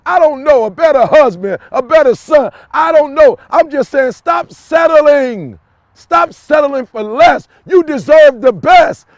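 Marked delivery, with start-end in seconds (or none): 4.1-9.1 fired-up preaching. Real, not acted. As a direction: drive each word home at full volume. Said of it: "You can tell that was burning me up".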